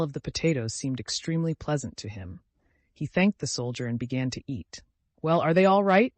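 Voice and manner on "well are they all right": higher, louder, cheerful check; smiling question. A narrator's reading. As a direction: ask with an audible smile. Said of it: "said the soldier with a smile".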